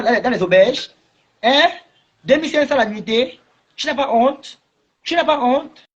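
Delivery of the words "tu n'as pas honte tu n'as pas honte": reproche moqueur. Real, not acted. Reproche répété, voix changée.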